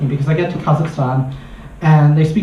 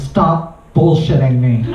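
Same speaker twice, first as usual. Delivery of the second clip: slow, dry deadpan retort; unimpressed, straight-faced, unhurried; 3 semitones lower, slower than usual. Retold or imitated.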